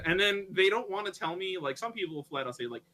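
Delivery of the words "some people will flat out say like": ordinary delivery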